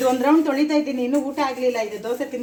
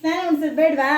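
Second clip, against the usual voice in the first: scolding shout; 4 semitones higher, 4 dB louder than usual. Real, not acted. Grandma scolding the baby who refuses her bath, loud and high.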